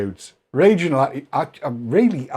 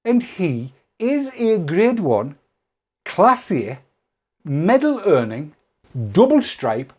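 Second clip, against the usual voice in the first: mock pompous insult; 5 semitones higher, 3 dB louder, slower than usual. Real, not acted. Mock award-style insult building.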